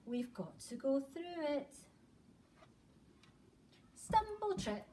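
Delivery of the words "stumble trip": high sing-song. Acted. Tripping through the dark forest.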